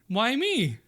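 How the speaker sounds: high-pitched, loud, startled little protest; Moo's protest. Acted. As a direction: squeak it out, high and put-upon. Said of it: "Moo's like".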